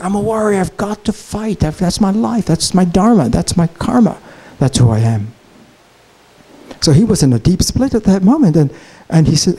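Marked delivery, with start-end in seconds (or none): 0.0-5.3 ego voice, somewhat higher and insistent; a warrior's ego arguing its duty, pitched up; proud ego voice. Retold or imitated. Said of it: "his ego voice was saying".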